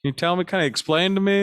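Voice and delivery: lightly voiced curious questioner; curious visitor. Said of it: "coming to talk to us".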